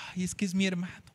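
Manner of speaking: sighing, moved tenderness; acted fond sigh; tender affection. David looks at his friend's son, tender sigh. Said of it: "vio al que ama".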